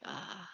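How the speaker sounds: soft happy "ah" of relief; contented sigh. Acted. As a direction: sink into a blissful sigh. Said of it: "she's like".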